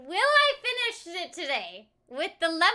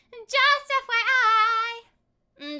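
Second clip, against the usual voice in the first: 1 slow drawn out; 5 semitones higher, 4 dB louder, much slower than usual. Pretend. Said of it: "repeats phrase in voices".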